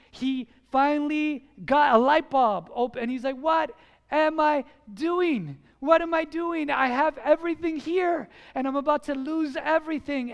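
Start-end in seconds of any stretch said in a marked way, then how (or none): 3.4-10.3 raised, loud self-questioning; sudden realization. Retold or imitated. Husband realizing he could lose his marriage, sudden realization. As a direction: cry out as the truth dawns.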